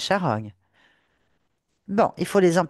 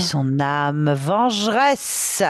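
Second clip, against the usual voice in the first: seething shrieking spirit; slower than usual. Acted. Ghost names herself, vengeful.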